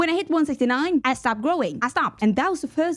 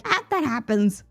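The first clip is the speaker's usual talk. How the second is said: casual, offhand dismissal; unfazed doctor. Retold or imitated. Doctor brushing off her patient's height loss, unfazed. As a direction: shrug it off like an unbothered doctor. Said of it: "was just not fazed".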